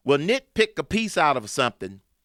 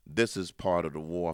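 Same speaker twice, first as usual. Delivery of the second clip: normal talking voice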